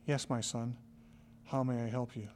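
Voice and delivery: peaceful. Retold or imitated. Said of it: "with peace and love in his heart".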